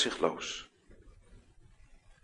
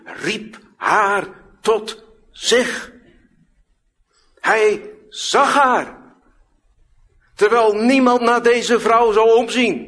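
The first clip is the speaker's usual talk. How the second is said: slow, much louder and higher proclamation; emphatic preaching; 11 semitones higher, 10 dB louder, much slower than usual. Acted. Preacher proclaiming Jesus saw the bent woman, slow and loud. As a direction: lift it up and stretch each word out.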